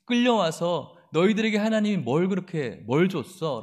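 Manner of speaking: contemptuous mockery; mocking taunt. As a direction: sneer to shake their faith. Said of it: "라는 거예요".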